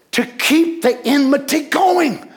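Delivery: rising, forceful declaration; emphatic preaching. Real, not acted. Preacher building to climax.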